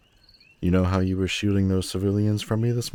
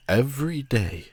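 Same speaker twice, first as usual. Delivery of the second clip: much higher, pressing; fervent emphasis; 9 semitones higher than usual. Acted. Villain ranting about humanity's evil, fervent. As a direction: lean into every word.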